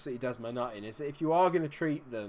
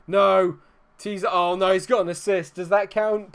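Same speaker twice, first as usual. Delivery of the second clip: loud shocked reaction; 6 semitones higher, 10 dB louder than usual. Real, not acted.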